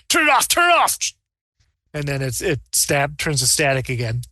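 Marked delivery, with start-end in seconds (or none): 0.1-1.0 high, urgent alarm; panicked order. Acted. Other doctor panicking at the exploding mouse, high and urgent. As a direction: shut it down in panic. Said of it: "the other doctor says".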